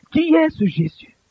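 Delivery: high, slow, ringing question. Real, not acted. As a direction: lift the voice and stretch it out.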